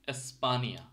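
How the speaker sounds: "এসপানিয়া" opening on a clear এ; teacher's careful "এসপানিয়া", E said as এ; Finnish E sound. Shown as a demonstration. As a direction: model "এসপানিয়া" with e at the start. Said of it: "এটা কিন্তু এর মতো উচ্চারণ হচ্ছে".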